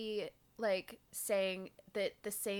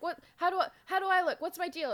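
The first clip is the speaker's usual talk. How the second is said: fast, higher, louder flustered questions; flustered Cassie; 9 semitones higher, 5 dB louder, faster than usual. Retold or imitated. Host plays Cassie fretting over her looks, fast fluster. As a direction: rattle it off in a panic. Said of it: "Cassie's like".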